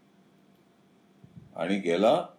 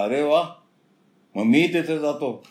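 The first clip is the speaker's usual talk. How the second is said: delighted jackal; 7 semitones higher, 6 dB louder than usual. Acted.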